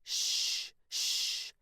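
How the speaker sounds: unvoiced hushing; shushing. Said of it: "a woman said".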